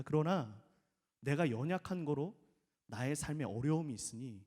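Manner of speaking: hushed sincere prayer; humble prayer. Shown as a demonstration. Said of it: "다윗의 기도는".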